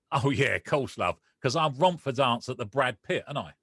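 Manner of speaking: mocking, laughing it off; sarcastic reply. Retelling how he mocked the medium, sarcastic. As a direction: brush off the medium with a joke. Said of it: "Like this".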